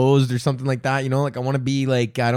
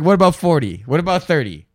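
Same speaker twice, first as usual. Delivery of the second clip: haggling; 4 semitones higher than usual. Retold or imitated. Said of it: "Abraham's like".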